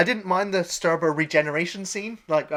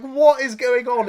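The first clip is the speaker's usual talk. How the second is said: loud, high, slow mock bewilderment; baffled; 6 semitones higher, 6 dB louder, slower than usual. Voicing a viewer watching the orgy scene, baffled. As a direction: draw it out in exaggerated bafflement.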